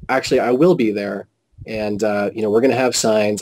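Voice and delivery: controlled, conversational statement; matter-of-fact. Retold or imitated. Protester telling Witnesses he'll be there, calmly matter-of-fact. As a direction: say it evenly, without attacking. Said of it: "this is exactly how I said it".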